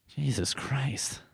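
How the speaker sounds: slow breathless whisper; exasperated whisper. Real, not acted. Muttering at yet another animal logo, slow whisper. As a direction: sigh the words out under your breath. Reacting to rabbit and bear logo.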